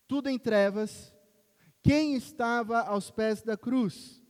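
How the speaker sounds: loud and drawn out, question hanging; slow dramatic build. Acted. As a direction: lean in and slow right down, loud. Dramatic preaching climax.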